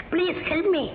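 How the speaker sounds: very slow, drawn-out plea; pleading in English. Acted. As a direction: stretch the English plea out pitifully. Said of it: "English வேறயா?". (மெதுவாக இழுத்த ஆங்கில கெஞ்சல்)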